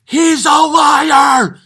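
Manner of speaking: very high, loud, drawn-out yell; screaming outburst. Acted. Comedian at the party screaming at the guest, drawn-out yell. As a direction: scream it out, stretching every word.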